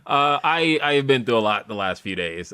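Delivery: lisping after oral surgery. Real, not acted. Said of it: "why you have a lisp today".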